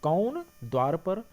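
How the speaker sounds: slow, drawn-out कौन, rising question; slow questioning delivery, कौन held long. Shown as a demonstration. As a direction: stretch कौन and lift द्वार पर as a question. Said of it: "प्रश्नवाचक चिन्ह लग गया".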